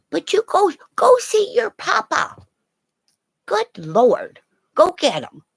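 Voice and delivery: high, coaxing voice to the dog; sing-song urging of the dog to go find papa; cheerful dog-coaxing voice; pet talk. Real, not acted.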